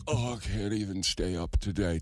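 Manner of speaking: drowsy, low, sleepy mumble; groggy tired voice. Retold or imitated. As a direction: sound barely awake and drained. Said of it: "when you're like".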